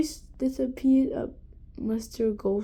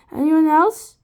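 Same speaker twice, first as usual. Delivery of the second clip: villain voice; 4 semitones higher, 9 dB louder than usual. A narrator's reading. Mr Gorf character voice.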